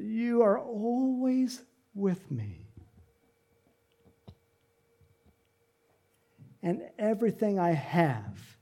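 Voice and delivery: slow, tender assurance; gentle pleading. Acted. Father pleads with his angry son, tender. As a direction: draw it out to reassure. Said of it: "he goes to plead with him".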